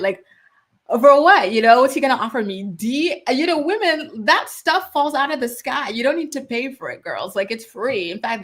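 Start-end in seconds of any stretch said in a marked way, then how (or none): 1.0-2.6 incredulous exclaim. Real, not acted. Repeating her question to the viewers, loud disbelief. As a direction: fling out what in disbelief.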